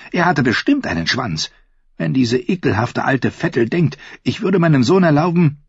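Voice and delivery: high, contemptuous queen rant; evil queen. Acted. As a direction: spit scorn at her rivals. Cersei ranting to Jaime.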